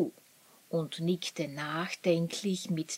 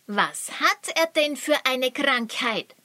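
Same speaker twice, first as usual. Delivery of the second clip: ungeduldig; 6 semitones higher, 4 dB louder than usual. Acted. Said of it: "fragte Luri ungeduldig".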